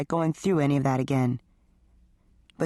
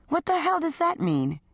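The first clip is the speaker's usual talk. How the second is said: sharp, high, stunned question; shocked; 12 semitones higher than usual. A narrator's reading. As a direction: throw it back in disbelief. Wife shocked in quarrel.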